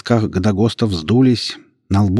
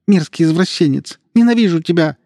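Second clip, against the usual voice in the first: higher, louder furious cry; 10 semitones higher, 5 dB louder than usual. A narrator's reading. Yasmina screams at her abusive uncle, furious. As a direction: spit hatred at him. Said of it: "Глаза Ясмины сверкнули яростью".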